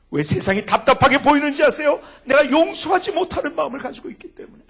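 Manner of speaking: loud, high rhetorical challenge; preacher at full force, loud and high; forceful preaching. Acted. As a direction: drive the point home to the congregation.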